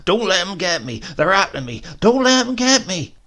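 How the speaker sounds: a man in a fit of the blues screaming through the town. Acted. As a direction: shriek as if chased by demons. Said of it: "rushing about the town screaming".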